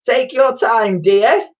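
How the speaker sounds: high, loud, sugary patience; sweet high saleswoman voice; nice voice. A narrator's reading. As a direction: coax the child with put-on niceness. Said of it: "in her nice voice".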